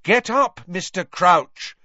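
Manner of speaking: loud urgent command; loud and clear. A narrator's reading. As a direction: order him up, slowly and distinctly. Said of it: "said Harry loudly and clearly".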